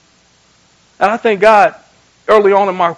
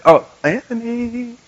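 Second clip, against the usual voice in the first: drawn-out, higher call of a name; lightly voiced God, slowly summoning; the Lord calling; 5 semitones higher, slower than usual.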